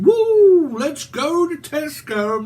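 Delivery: hammed-up manic high, loud and slow. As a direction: burst out in manic glee. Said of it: "A very high vibration".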